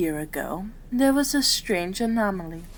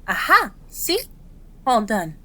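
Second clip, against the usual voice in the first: triumphant aha; 3 dB louder than usual. Acted. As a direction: pipe up with a pleased aha. Thermometer reading is done.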